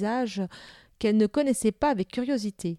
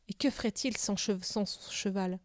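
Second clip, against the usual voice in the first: soft, concerned musing; hushed worry; 8 dB quieter than usual. A narrator's reading. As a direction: wonder it quietly to yourself. Worried about his exhausted horse.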